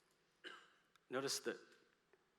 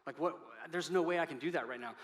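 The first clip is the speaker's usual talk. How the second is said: higher, louder, fast incredulous listener; mock objection; 3 semitones higher, 5 dB louder than usual. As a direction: play the doubtful churchgoer pushing back. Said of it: "you're like".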